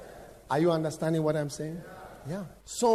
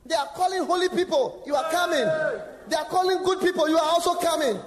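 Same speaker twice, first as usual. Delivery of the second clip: devil mocking; 13 semitones higher than usual. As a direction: sneer it like the accuser. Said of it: "the devil will tell you".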